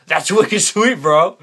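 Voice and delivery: high, loud "That's wicked sweet, bro"; hammed-up bro enthusiasm; hyped slang. Shown as a demonstration. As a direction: hype it up like a pumped-up bro. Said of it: "I say things that you might not say".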